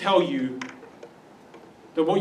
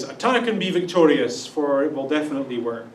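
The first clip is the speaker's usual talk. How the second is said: sarcastic; 4 semitones lower than usual. Retold or imitated. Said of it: "he says it in a sarcastic tone of voice".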